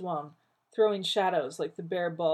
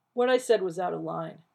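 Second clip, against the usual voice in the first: stiff; 5 dB louder than usual. Acted. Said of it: "he said stiffly".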